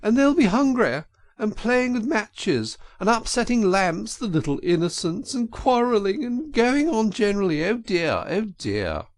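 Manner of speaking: high falsetto, weepy and fretful; high wailing, fading on oh dear; sobbing washerwoman. A narrator's reading. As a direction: Toad overdoing a mother's worries. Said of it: "sobbed Toad".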